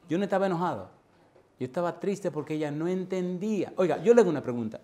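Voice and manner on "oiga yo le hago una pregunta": urgent challenge. Acted. Rhetorical challenge to congregation.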